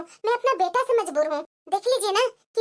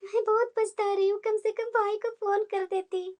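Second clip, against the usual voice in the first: regretful inner thought; 6 dB quieter than usual. Acted. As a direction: let the regret sink in quietly. Daughter-in-law's regretful inner thought. (पछतावे भरी धीमी आत्म-वार्ता)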